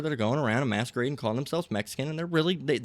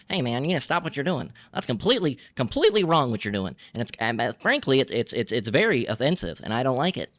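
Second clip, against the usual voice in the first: imitating a fussy white man, raised pitch; mock white guy. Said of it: "Just like a lot of white people".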